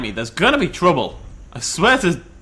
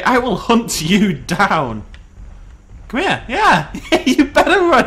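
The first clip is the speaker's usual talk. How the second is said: higher, louder gloating shouts at a fleeing foe; triumphant taunting; 5 semitones higher, 5 dB louder than usual. Real, not acted. Chasing the wounded T-Rex, loud high triumphant taunts. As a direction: crow over the limping T-Rex.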